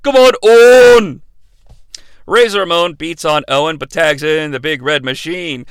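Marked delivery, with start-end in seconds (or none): 0.0-1.2 loud cheering shout; mock encouraging yell; imitated yell. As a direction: call out to urge your partner on. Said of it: "the British Bulldog yells".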